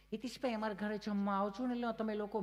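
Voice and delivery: a hint of a fashionable Surat friend; prim refined Gujarati. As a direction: mimic a fussy city speaker picking each word. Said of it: "એટલું ચીપી ચીપીને ગુજરાતી બોલે".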